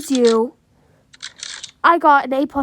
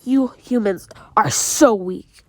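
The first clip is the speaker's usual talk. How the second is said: sneering panto villain; 3 semitones lower than usual. Acted. Monster sneers at humans.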